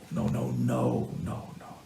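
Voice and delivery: soft, slow, breaking into a whisper; hushed pleading. Retold or imitated. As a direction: beg him under your breath, drawing it out. Pleading with the rabbi.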